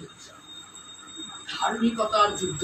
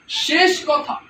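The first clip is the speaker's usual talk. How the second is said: শেষ punched high and loud; stress on শেষ; 5 semitones higher, 3 dB louder, slower than usual. Acted. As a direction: hit শেষ, the final word. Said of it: "এরপরে আর কোনো কথা হবে না". (শেষ শব্দে জোর)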